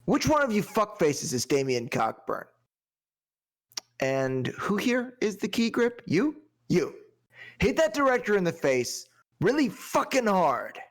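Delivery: slow, drawn-out taunting threat; menacing movie quote. Retold or imitated. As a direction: stretch "I see you" then bark the order. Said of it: "This one's kinda long".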